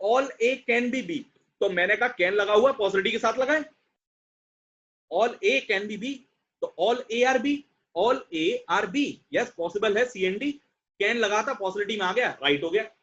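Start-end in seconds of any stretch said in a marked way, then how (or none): 0.1-1.2 slow reading. Shown as a demonstration. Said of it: "teacher reading the example". 5.1-6.2 slow reading. Shown as a demonstration. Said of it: "teacher rereading the example". 8.0-9.1 "all A are B" drawn out slowly and pitched higher; slow emphatic reread. Shown as a demonstration. Teacher rereading the conclusion to students, slowly and higher. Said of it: "teacher contrasts two readings".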